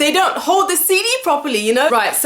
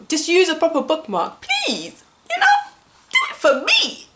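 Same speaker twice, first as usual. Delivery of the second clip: mock pleading; 6 semitones higher than usual. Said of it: "pleading with careless friends".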